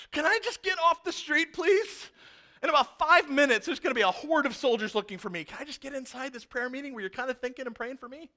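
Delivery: a lightly voiced desperate fugitive; Peter pleading. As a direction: beg to get off the street. Peter pleading outside the gate.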